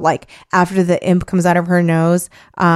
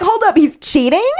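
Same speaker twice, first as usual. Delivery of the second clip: shocked disbelief; 9 semitones higher than usual. Retold or imitated. Reacting to learning of the cheating.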